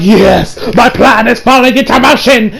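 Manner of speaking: hint of a smug cartoon god plotting; English dub Champa impression. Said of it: "That's my best English dub Champa impression".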